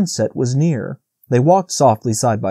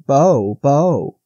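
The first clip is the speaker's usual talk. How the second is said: fading bleat; 2 semitones higher, 3 dB louder than usual. A narrator's reading.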